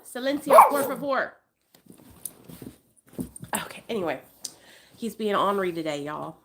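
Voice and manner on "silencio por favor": firm hush. Real, not acted. Scolding dog.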